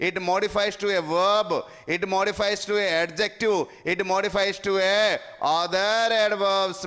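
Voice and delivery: slow, word-by-word teacher dictation; deliberate classroom dictation. Shown as a demonstration. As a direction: spell the rule out slowly for the class. Teacher dictating adverb rule slowly.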